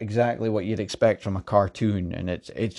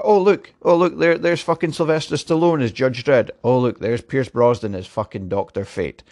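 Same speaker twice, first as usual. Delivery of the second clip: exasperated mock rant; 3 semitones higher, 4 dB louder than usual. Mocking helmet reveals, worked up.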